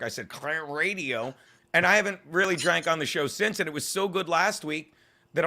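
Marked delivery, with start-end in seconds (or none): 0.3-1.3 slow, drawn-out mock-drunk words; lightly drunk imitation of oneself; imitated drunkenness. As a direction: stretch it out as if tipsy. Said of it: "I got so drunk".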